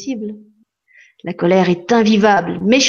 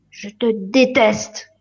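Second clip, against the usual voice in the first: calmed repeat; much slower than usual. Acted.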